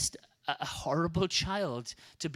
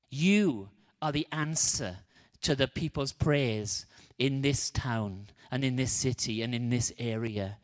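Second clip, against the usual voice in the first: preaching exhortation; 3 dB louder than usual. Acted. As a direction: urge the congregation on, pressing each phrase. Closing exhortation to congregation.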